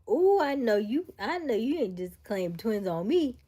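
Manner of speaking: loud, slow playful teasing. Real, not acted. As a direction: call her out, slow and loud. Teasing sister about twins.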